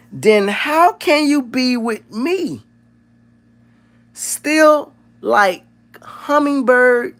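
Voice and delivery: hammed-up gentle giant reading a love poem slowly; mimicking Mikey reciting. Streamer closing the stream as Mikey reciting poetry. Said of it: "I gotta try to mimic Mikey".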